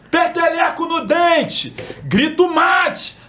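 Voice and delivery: high, loud, slow sung-out street cry; singsong beach vendor call. Shown as a demonstration. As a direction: belt it across the sand like a mate seller. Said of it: "manda aí a passada aí".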